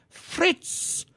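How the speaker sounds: breathy whispered name from a dream; murmured in sleep. A narrator's reading. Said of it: "She is talking, pronouncing a name".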